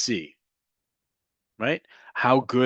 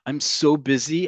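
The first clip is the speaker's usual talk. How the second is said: higher, emphatic "so" in "I'm so busy"; emotion on SO; 4 semitones higher, 4 dB louder than usual. Shown as a demonstration. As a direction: punch "so" with feeling. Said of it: "has a little bit more emotion behind it".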